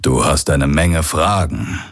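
lightly voiced old pirate mentor, earnest; a hint of an old pirate making a confession. Old pirate's hologram speaks to Garland. (leicht angedeuteter alter Pirat, ernst)

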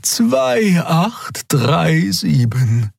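very slow, patient correction. A narrator's reading. Xea correcting Nelen, patient and slow. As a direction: set her right gently. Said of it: "korrigierte Xea geduldig".

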